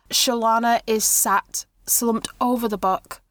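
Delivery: measured scene-setting with pauses; game master narration. A narrator's reading. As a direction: set a sombre scene unhurriedly.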